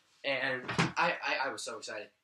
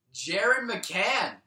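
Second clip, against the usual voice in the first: excited; 4 semitones higher, 5 dB louder than usual. Acted. Mock first goal announcement.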